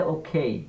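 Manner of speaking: "ওকে" as "ওখেই", puff on the K; "ওকে" as o-khei; aspirated খ. Shown as a demonstration. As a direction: model "ওকে" with breathy K. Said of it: "সব খ হয়ে যাবে".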